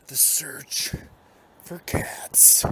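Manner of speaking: hushed whisper. Acted. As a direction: whisper it like a secret. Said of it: "I should whisper".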